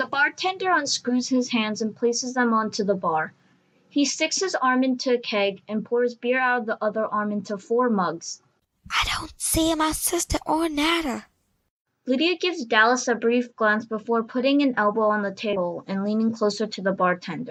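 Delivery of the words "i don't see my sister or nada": hushed, quiet whispered aside. At a bar after ordering four beers, a character speaks, whispering.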